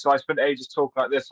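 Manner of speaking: put-on posh English accent; lightly posh character voice. Shown as a demonstration. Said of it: "gave him a posh voice".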